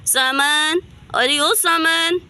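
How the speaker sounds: mock searching shout; calling out. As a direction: stretch the name as you call through the house. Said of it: "क्यों इतनी तेज तेज चिल्ला रही हो".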